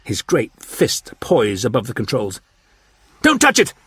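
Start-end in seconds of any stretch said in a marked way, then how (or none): 3.2-3.7 high, loud alarmed cry; cried out. A narrator's reading. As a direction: shout it out to stop him. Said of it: "cried Clent".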